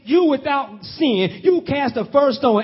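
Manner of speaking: Jesus' challenge thrown out to the accusers, loud and high. Retold or imitated. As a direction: lift it up and proclaim it. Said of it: "Jesus says".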